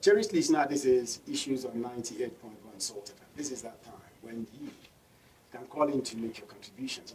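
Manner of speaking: call-in promo read out to listeners; radio host inviting listeners to call in; radio host announcement. Acted. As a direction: announce the phone-in line like a host.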